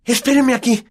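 high and urgent; eager, hurried girl; excited Hermione. Acted. Hermione rushes off. (Hermione emocionada)

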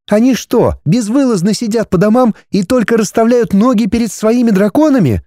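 put-on high, indignant young woman; outraged heroine. A narrator's reading. Heroine scolding the dragon lord, high and outraged.

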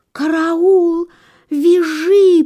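high, loud storybook cry for help; fox's alarm. A narrator's reading. Fox startled in her sleep, high alarmed cry. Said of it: "подумала лиса".

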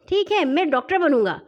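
lightly voiced small boy; little boy. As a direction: agree and claim the role as a child. Younger boy eagerly claims the role.

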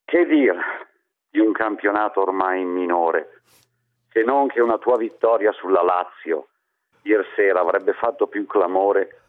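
theatrical swelling poetry reading. Acted. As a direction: recite hendecasyllables with mock grandeur. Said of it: "oggi vorrei esprimermi in endecasillabi".

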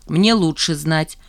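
slow, stubborn insistence. Acted. Refusing a friend's compliment, stubbornly. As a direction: dig in her heels, slowly. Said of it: "упрямо покачала она головой".

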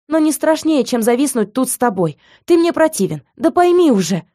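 high, loud scornful outburst; furious retort. Acted. Heroine to man in quarrel, high angry outburst. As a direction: throw the insult in his face.

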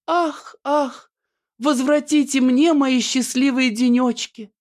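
high theatrical lament; high hammed-up heroine crying out; melodramatic sigh. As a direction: sigh and beg, high and overdone. Annushka's melodramatic cry.

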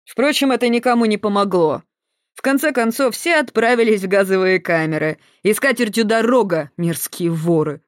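high, gloating villain sneer; sinister guard. Acted. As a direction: mustache twirling villain. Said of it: "Охранник зловеще рассмеялся". (зловещий злорадный охранник)

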